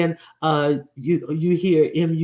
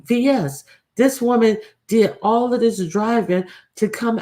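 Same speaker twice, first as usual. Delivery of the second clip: scolding her directly in a raised, higher voice; talking straight to her, higher and reproachful; reproachful address; 4 semitones higher than usual. Real, not acted. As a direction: call her out, pitched up with disbelief. Directly scolding the absent woman.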